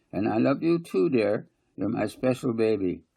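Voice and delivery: put-on doting on her baby; tender cooing mother. Mother cooing to little one.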